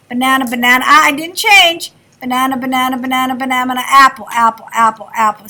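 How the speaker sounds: steady repeated apple, then banana on a falling close; listening demo. Shown as a demonstration. Teacher to class, chanting apple then banana for a sound drill. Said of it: "When it changes again".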